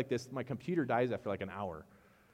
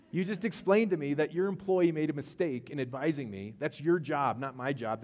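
indignant; 5 semitones higher, 6 dB louder than usual. Retold or imitated. Arguing with phone agent.

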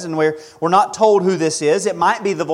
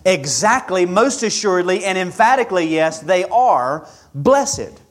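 emphatic testimony; 3 semitones higher than usual. Acted. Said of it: "the Holy Spirit comes with his testimony".

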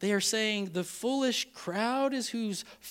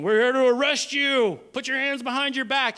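raised, louder mock police command; acted arresting order; 5 semitones higher, 4 dB louder than usual. Guards to Jesus at the arrest, raised commanding voice. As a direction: announce the arrest with authority.

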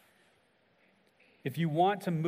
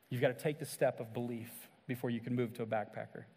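softer, gentle invitation to the doubters; soft altar call; 3 semitones lower, 5 dB quieter than usual. Acted. Pastor gently inviting seekers to believe, hushed and tender. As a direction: lower the voice and draw seekers in.

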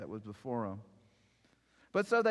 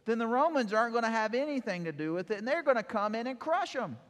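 rising alarm; 9 semitones higher, 5 dB louder, faster than usual. Real, not acted. Preacher building on Roman threat.

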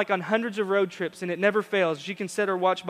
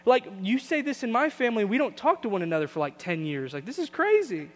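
raised, incredulous pleading; panicked Amy; 4 semitones higher than usual. Retold or imitated. Amy shocked at family fighting, mock disbelief. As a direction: imitate a shocked girlfriend. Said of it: "she's saying".

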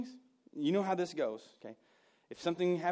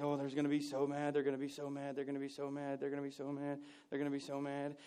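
worked-up worry; 2 semitones lower, 6 dB quieter, faster than usual. Acted. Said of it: "you get worked up".

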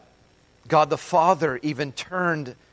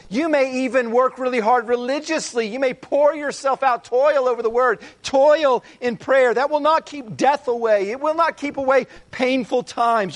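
higher, pressing preacher voice; preaching at full force; 6 semitones higher than usual. Acted. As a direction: urge them, line after line. Preaching on what we cannot control.

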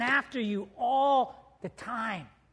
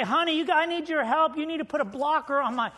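pleading to wife; 3 semitones higher than usual. Retold or imitated. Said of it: "you say".

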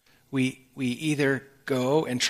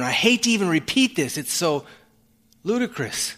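exasperated Paul quote; 4 semitones higher, 4 dB louder than usual. Retold or imitated. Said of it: "That's what he's saying when he says".

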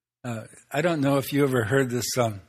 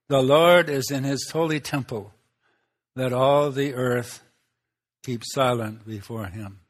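slowed solemn reading of the verse; scripture reading; 3 dB louder than usual. Acted. Preacher reading the verse to the congregation as solemn scripture. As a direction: read it out slowly like a liturgy.

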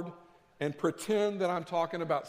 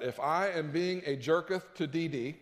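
mock King James English. Shown as a demonstration. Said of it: "I King Jamesed it to make me sound more spiritual".

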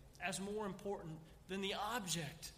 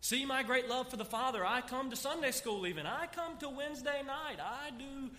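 higher, hammed-up boasting churchgoer; mock self-righteous boast; 4 semitones higher than usual. Preacher mocking a churchgoer bragging to God, hammed-up. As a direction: parody a proud churchgoer listing deeds, laughing at the end.

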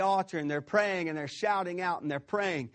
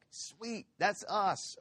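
higher-pitched, pleased 'sweet'; acted eagerness; 4 semitones higher, 4 dB quieter, much slower than usual. Preacher voicing Baal's confident people, mildly eager. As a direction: imitate a crowd sure it will win. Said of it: "No, they're like".

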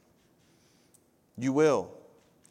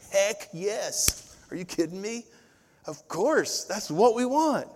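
eager agreement; 8 semitones higher, slower than usual. Retold or imitated. His own enthusiastic retort.

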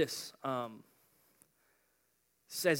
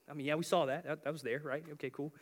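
nonchalant; 4 dB quieter than usual. Acted. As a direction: shrug it off, dropping the energy. Joshua and Caleb shrug off giants.

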